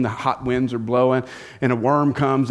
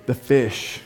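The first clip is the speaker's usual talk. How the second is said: put-on childlike awe; 3 semitones lower than usual. Shown as a demonstration. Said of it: "What was the main thing you wanted to hear about".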